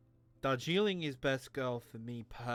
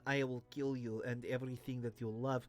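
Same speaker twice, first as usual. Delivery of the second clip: menacing Russian KGB agent, slightly softer; KGB Russian villain; 4 dB quieter than usual. Retold or imitated. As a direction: threaten like a movie KGB officer. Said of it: "K G B kind of Russian ... kind of voice".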